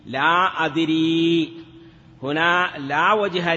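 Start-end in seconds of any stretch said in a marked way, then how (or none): 0.0-1.5 لا أدري slow and stretched, the ya dropped, laa dri; shortened form. Shown as a demonstration. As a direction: drawl لا أدري with the ya swallowed. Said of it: "كما قالوا لا أدري في لا أدري". (لا أدري ببطء مع حذف الياء)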